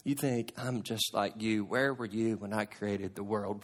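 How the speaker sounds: soft, low and intimate; almost whispering the challenge; hushed preaching. Acted. Preacher closing with God's quiet challenge, hushed.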